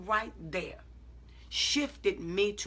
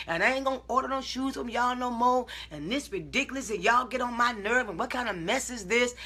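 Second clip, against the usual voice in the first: mock clowning out; 2 semitones higher than usual. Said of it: "I could have clowned and showed out".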